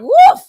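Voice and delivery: loud, high woof as the liquor burns; shocked woof at the strength of the drink. Real, not acted. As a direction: bark it out after a strong swig. Reacting to harsh liquor.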